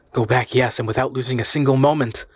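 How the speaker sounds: insist, no room for argument; vehement. Acted. Harry urging his uncle to turn back, vehemently. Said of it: "I vehemently cried".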